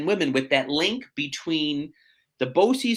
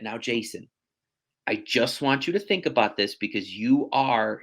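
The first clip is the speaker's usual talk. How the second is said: earnest father; 4 semitones lower than usual. Retold or imitated. Father's sober talk at the signing.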